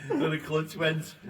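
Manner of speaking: high, loud, slow punchline; laughing. Real, not acted. Telling friends how the van trip ended, laughing loudly.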